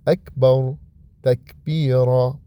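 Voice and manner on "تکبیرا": تکبیرا slowly drawn out; slow Arabic recitation. Shown as a demonstration. Teacher reciting تکبیرا slowly for kids. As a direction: stretch out تکبیرا. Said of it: "عربی بگید".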